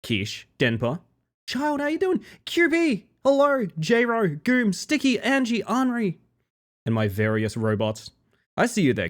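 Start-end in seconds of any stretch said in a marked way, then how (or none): 1.5-6.2 high greeting voice. Pretend. Greeting chat members in voice.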